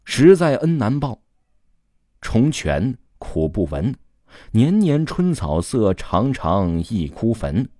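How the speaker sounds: slow, solemn verse recitation; poem recitation. A narrator's reading. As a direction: declaim the mourning poem, drawing out each line. Narrator recites a mourning poem.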